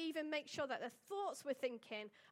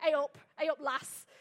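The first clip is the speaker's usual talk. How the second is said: loud, laughing mock Yorkshire greeting; Yorkshire accent; 10 dB louder than usual. Imagining a Yorkshire test phrase, loud laughing Yorkshire accent. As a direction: play up a broad Yorkshire hello through a laugh. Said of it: "say it in a Yorkshireite sentence".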